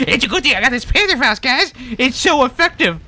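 high, fast, loud squeaky sarcasm; sarcastic mock praise. Player to viewers about useless Panzerfaust, high fast sarcasm. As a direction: rattle it off in a high mocking voice. Sarcastically repeats line after weapon fails.

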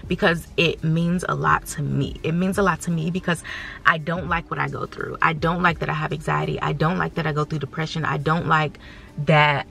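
fighting tears while speaking; getting emotional. Real, not acted. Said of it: "I'm sorry, I'm getting emotional".

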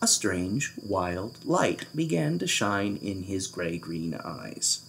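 low, soft, slow narration; quiet, mysterious storytelling; hushed suspense. A narrator's reading. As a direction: drop to an ominous hush. Suspenseful narration of king's idea.

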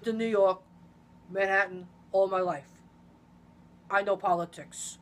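lightly voiced Trump boast; a hint of Trump bragging; light Trump impression. Friend practising a Trump impression, lightly voiced. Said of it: "that's my Trump impression".

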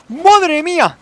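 loud, high gasp of disbelief; stunned exclamation. Real, not acted. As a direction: blurt it out in shock. Exclaims after near death. (¡madre mía! exclamado con asombro, alto)

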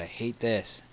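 usual speaking voice

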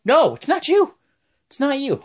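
high-pitched exasperated boss; loud, hammed-up correction; Vince. Boss turning Teddy away, mock exasperation. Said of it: "he's like".

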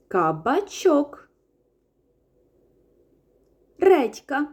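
name each vegetable slowly so toddlers can repeat; teacher naming flashcards, slow and loud; clear naming for kids. Shown as a demonstration. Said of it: "впізнаємо та називаємо".

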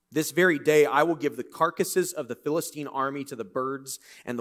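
steady, strong reading of the passage; scripture reading. Acted. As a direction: proclaim the story. Reads scripture aloud.

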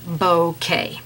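bouquet said slowly as BOH-KAY; correct pronunciation. Shown as a demonstration. Painting teacher reporting Google's answer, bouquet as slow BOH-KAY. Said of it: "it does say bouquet".

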